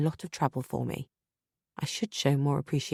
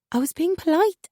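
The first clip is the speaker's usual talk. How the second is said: much higher, louder protest; defensive; 6 dB louder than usual. Acted. Wife defending herself to husband, high and defensive. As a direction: justify yourself, rattled.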